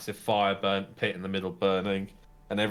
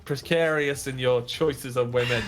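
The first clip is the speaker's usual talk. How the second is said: teasing dwarf; 5 semitones higher than usual. Acted. Dwarf teases the lad about Clara.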